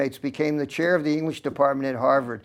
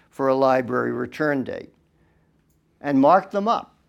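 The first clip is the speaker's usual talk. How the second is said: reading a letter aloud; 3 dB louder than usual. Acted. Reads his own letter aloud.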